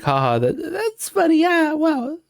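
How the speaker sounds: high, fake chuckly amusement; squeaky put-on amusement; forced laugh. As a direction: laugh it off, pretending it's fine. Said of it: "at first you were like".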